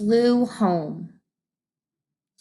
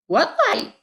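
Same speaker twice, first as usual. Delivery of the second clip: mock snap; 4 semitones higher, faster than usual. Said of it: "snapped Frenzy".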